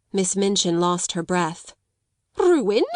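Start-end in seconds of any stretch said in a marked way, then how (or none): 2.4-2.8 high, louder gasped question. Acted. Headmistress gasps at the news of ruin. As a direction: gasp the word out in shock. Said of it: "she gasped out".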